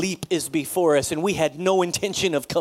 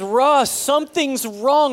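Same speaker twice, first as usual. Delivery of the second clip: haunting tone; 8 semitones higher, 7 dB louder, slower than usual. Retold or imitated. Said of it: "But she says".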